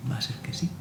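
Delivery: soft whispered admission; hushed whisper. Retold or imitated. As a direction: breathe it out under the voice. Quietly admits to his father.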